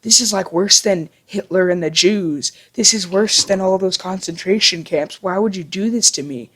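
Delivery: hammed-up imitation of a brother losing it; mock outraged yelling. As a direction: play an overblown accusation without really shouting. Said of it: "he yells at me".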